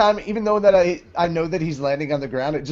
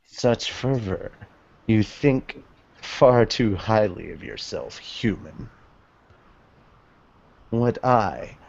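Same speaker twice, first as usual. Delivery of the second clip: a hint of a contemptuous ancient being; villain dragon; 5 semitones lower, 4 dB quieter than usual. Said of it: "Who's gonna be Echnologia?".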